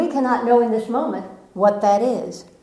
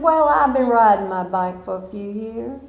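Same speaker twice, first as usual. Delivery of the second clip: put-on southern accent. Nephew telling coach his experience, Southern accent. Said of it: "in his southern accent".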